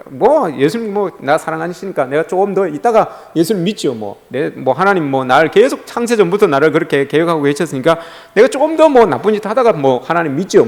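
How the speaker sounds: mildly offhand, put-off acceptance; playing hard-to-get. Believer stalling God's proposal, mildly coy and dismissive. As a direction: brush off the proposal as if in no hurry. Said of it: "톡톡 튕겨요".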